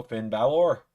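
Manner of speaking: a hint of an Irish lilt on "Finn Balor"; barely-there Irish accent; light Irish accent. Shown as a demonstration. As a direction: say the name with a mild Irish accent. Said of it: "I put on a light Irish accent".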